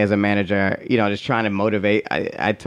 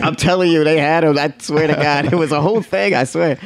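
pleading husband; 6 semitones higher than usual. Retold or imitated. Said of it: "He's like".

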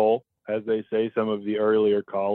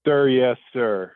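military reply; 5 dB louder than usual. Pretend. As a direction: bark it like a recruit at boot camp. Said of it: "I like that already".

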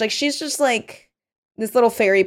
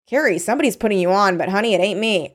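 sassy. Acted. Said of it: "She's so sassy".

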